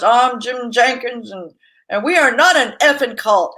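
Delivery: mock angry, emphatic denial; hammed-up angry insistence; angry cult leader. Business owner filming a promo video, mock angry denial. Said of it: "now you sound like an angry cult leader".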